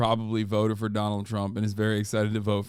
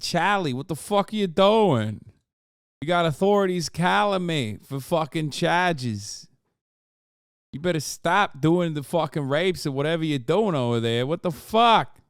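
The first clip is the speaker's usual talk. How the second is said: higher and louder, hammed-up furious rant; mock angry yelling; 7 semitones higher, 4 dB louder than usual. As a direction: play it like a fake furious phone tirade. Mocking yell at Charlie on phone.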